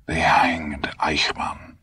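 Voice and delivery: slow, breathless whisper. A narrator's reading. Old fugitive whispering his fear to the boy, slow and hushed. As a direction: hush it like a dreaded secret. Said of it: "he whispered".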